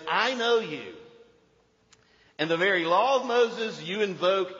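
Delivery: emphatic preacher's denunciation; ringing, insistent indictment; forceful rebuke. Acted. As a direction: confront the hypocrites head-on. Jesus rebuking accusers, acted by preacher.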